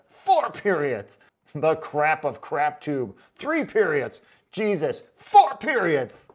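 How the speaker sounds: slow, loud, growing outrage; mock dramatic reading. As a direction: ham up every "Four periods". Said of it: "I gotta go back and read this one".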